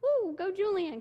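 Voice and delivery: high, loud cheer from the back seat; root for him loudly; retold excited cheer. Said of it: "I was like".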